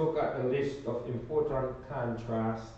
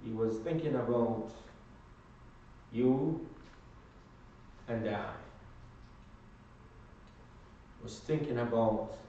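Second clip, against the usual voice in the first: lower, gentler sermon delivery; hushed preaching turn; 4 semitones lower, 7 dB quieter than usual. Real, not acted. Preacher telling congregation whom Jesus was thinking about, hushed. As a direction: drop low and let each phrase sink in. Preacher turns to Christ's love.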